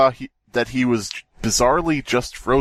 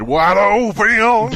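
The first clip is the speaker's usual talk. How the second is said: high, loud and slow on wide open; hammed-up dramatic reading; 10 semitones higher, 6 dB louder, much slower than usual. Rereading the story aloud for friends, hammed-up high booming voice. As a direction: boom out wide open like a horror trailer. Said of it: "Reread that properly".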